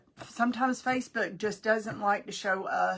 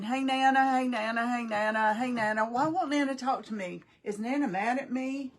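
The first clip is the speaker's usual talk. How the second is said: put-on a lightly raised, eager child calling; imitating grandson; 4 semitones higher, 5 dB louder than usual. Grandson calling for Nana, lightly voiced child. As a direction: call like a little boy wanting attention. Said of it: "he kept saying".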